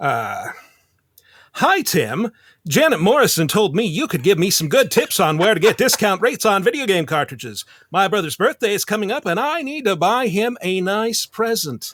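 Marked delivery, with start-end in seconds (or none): 1.6-11.9 put-on old-fashioned mid-Atlantic accent. Speaker reads a quote aloud for a listener in a fast-talking mid-Atlantic accent. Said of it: "fast talking mid Atlantic accent".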